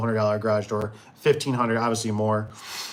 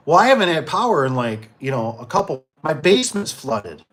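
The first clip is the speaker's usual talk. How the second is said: high, loud sheepish admission; lady confessing; 4 semitones higher, 5 dB louder than usual. Retold or imitated. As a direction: blurt out the embarrassing truth.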